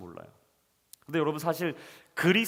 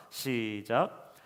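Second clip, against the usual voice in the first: cue to read together; 6 semitones lower, much slower than usual. Real, not acted. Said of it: "우리 사 절 말씀 한번 읽어봅시다".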